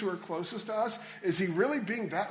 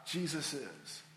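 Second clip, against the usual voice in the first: dropped low and much softer, almost to himself; hushed; 6 semitones lower, 10 dB quieter, slower than usual. Real, not acted. Preacher to congregation, a hushed low Jesus is. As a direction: let it fall away into a near-hush.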